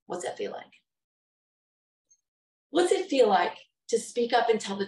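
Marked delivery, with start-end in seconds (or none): 0.1-0.8 breathy hushed question; whispered. Real, not acted. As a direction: drop to a pained whisper. Pained rhetorical question, whispered.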